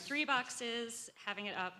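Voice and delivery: talking while bent over; hunched over the laptop, slightly strained. Real, not acted. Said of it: "Sorry, I'm all hunched over".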